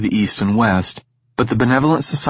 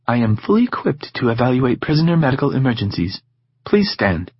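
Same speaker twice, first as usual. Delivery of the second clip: even robot voice, lightly done; 3 semitones higher than usual. Acted. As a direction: speak like a calm machine.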